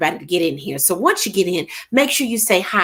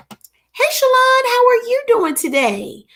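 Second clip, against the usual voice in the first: excited greeting; 14 semitones higher than usual. Real, not acted. Greeting a viewer by name.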